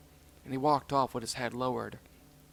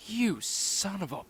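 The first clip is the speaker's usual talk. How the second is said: slow, high, bursting loud on bitch; a pup cursing his friend; rage; 7 semitones higher, 5 dB louder, slower than usual. Acted. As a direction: spit the insult in rage. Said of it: "his eyes filled with utter rage".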